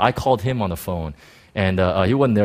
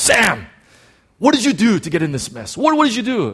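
higher, louder mock yell at a friend; 9 semitones higher, 5 dB louder than usual. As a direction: play the friend scolding down the phone. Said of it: "he starts yelling at me".

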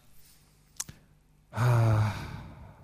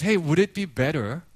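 gentle, lowered coaxing; retold tender father; 4 semitones lower than usual. Father consoling his daughter, gentle lowered voice. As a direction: offer comfort to an upset child. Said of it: "and then he says".

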